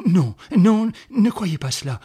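loud, high, emphatic denial; urgent protest. Acted. Man protesting to the woman who expects death, urgently. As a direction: refuse the idea with sudden force. Protests her talk of dying.

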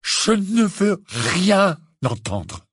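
slow, high furious roar. Acted. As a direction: spit each word out in anger. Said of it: "Rugit Harry".

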